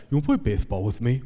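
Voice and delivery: quick lisped invitation; lisping four-year-old. Retold or imitated. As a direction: imitate a small boy lisping to his dad. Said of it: "he has a lisp right now".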